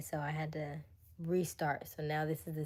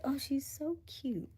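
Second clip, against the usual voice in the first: mock condescension; 9 semitones higher, slower than usual. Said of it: "you look at me like".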